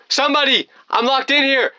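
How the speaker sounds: high-pitched acted yell; urgent, high cry for help; screaming for help. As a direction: call out desperately through a locked door. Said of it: "so I kept screaming".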